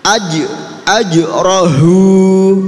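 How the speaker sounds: "Aj" bounced on j, "rohu" held long and loud; qalqalah. Shown as a demonstration. Teacher leads a repeat-after-me drill, qalqalah on "Aj". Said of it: "Nggih, qalqalah".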